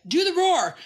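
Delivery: high-pitched eager little-guy voice; high, insistent mimicry; little guy's demand. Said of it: "when that little guy says".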